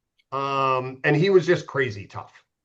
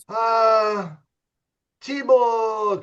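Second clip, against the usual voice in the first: put-on high, called-out Thibault in a Russian accent; imitating a Russian coach with a loud high Russian accent; 7 semitones higher, 3 dB louder, much slower than usual. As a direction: call the name like the Russian coach. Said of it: "That was my Russian accent pretty good?".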